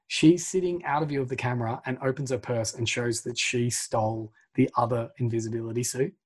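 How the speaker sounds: normal talking voice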